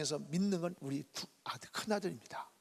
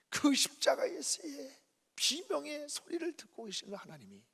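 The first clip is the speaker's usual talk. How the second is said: ordinary talk, nothing marked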